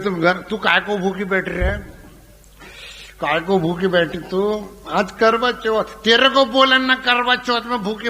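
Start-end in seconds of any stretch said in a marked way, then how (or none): none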